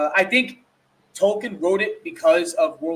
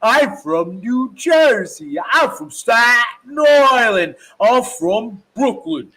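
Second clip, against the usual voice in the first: slow, drawn-out put-on New York accents; 2 semitones higher, much slower than usual. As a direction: run through borough accents, stretching each word. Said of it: "we're talking about the Brooklyn accent".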